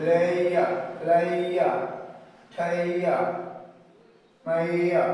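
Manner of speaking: লেয়া and মাইয়া with a stretched aɪə glide; example words, emphatic. Shown as a demonstration. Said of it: "And in the words". (উদাহরণ শব্দ জোর দিয়ে)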